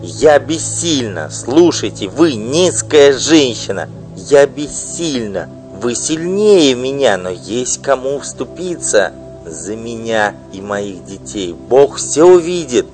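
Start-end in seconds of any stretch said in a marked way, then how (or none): 1.3-3.9 loud, high, bitter tirade; furious wife. Acted. Wife denouncing her husband's mistress, furious loud outburst. 5.8-12.9 loud, high, bitter tirade; furious wife. Acted. Wife denouncing her husband's mistress, furious loud outburst. Wife threatens with God's judgement.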